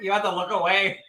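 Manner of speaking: high plea through giggles; fighting laughter. Real, not acted. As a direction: beg while trying not to crack up. Trying to stop laughing.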